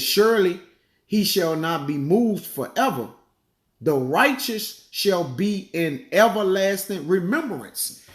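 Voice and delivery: slow, solemn verse reading; scripture reading. Acted. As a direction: draw out the verse slowly. Reads scripture aloud.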